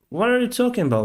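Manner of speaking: can't believe what you just heard; imitating his own stunned reaction; retold shock. Captain shocked by officer's reply.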